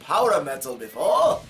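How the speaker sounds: pompous skeptic in a put-on voice; mock viewer. Imagined viewer questioning the genre, mock haughty voice. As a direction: play a snooty doubter. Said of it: "some of you are probably wondering".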